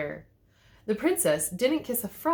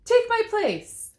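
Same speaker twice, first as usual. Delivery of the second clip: very high, slow and pleading; frightened Cinderella; 8 dB louder, slower than usual. A narrator's reading. Scared Cinderella giving up her tale to the wolf, high and slow. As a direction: beg him to take her place. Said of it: "a frightened Cinderella".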